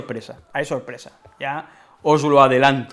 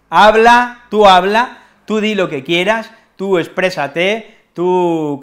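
exasperated outburst; 2 semitones higher, 4 dB louder, slower than usual. Acted. Mock-annoyed ironic tirade.

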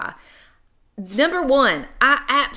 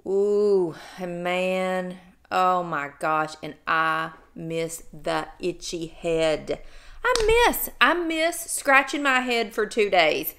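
mock-wistful moaning; drawn-out fake pining; sarcastic; 3 semitones lower, slower than usual. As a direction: pretend you miss the misery. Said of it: "I'm being totally sarcastic".

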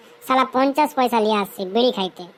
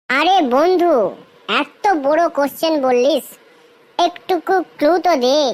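pleading; 3 semitones higher than usual. Acted. Friend begging for a clue to the riddle, pleading. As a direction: coax a friend for a hint.

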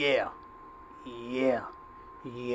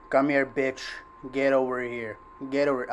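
scorpion voice. Acted. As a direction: bark it like Scorpion: get over here. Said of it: "I sound like Scorpion now".

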